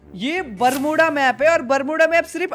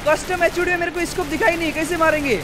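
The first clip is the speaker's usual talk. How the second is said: high-pitched, worked-up gamer protest; agitated urging; 5 semitones higher than usual. Real, not acted. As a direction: urge him on, voice raised in disbelief. Urging player, scope missing from map. (ऊँची आवाज़ में बेचैन शिकायत)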